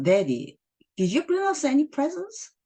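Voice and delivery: put-on a kid begging Daddy for a present; little kid. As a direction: ask like a small excited kid. Child asks father for presents.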